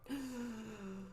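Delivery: soft drawn gasp; hushed, theatrical intake of breath; dramatic gasp. Acted. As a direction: gasp in storybook dread. Reaction to the soothsayer's appearance.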